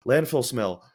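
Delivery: a gasp, then a touch of alarm; mock alarmed gasp. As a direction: retell a startled reaction, half-acted. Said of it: "I've had a severe reaction".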